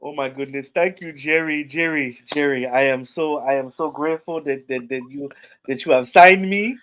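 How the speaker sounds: lightly voiced grateful football player; a hint of a humble, thankful lineman; Chuma Edoga voice. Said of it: "You gotta do the voice".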